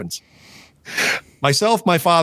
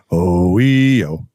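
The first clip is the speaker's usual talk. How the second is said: groaning; 7 semitones lower, 4 dB louder, much slower than usual. Retold or imitated. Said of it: "I was going".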